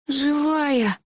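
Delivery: high thin ghost voice; squeaky little ghost; helium voice. A narrator's reading. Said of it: "тоненьким голосом произнёс призрак".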